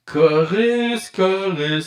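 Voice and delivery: chorus effect voice; talking inside a can; through a tube. Shown as a demonstration. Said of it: "je parle dans une canisse". (voix dans une canette)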